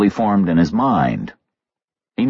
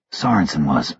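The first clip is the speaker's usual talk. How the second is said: low gruff voice; 5 semitones lower than usual. A narrator's reading. Reacher answering low in dark.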